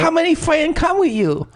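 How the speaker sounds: a hammed-up mock Asian accent, half laughing; racist Asian accent. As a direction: put on an exaggerated fake Asian accent. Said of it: "the most racist Asian accent ever".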